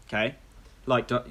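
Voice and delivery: normal talking voice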